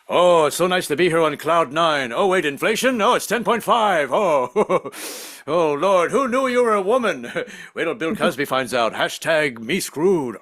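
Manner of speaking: lightly voiced manic riff; Robin Williams. Comedian imagines Robin Williams arriving in heaven, a light manic riff. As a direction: rattle off jokes with quick wonder. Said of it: "my impression of Robin Williams entering heaven".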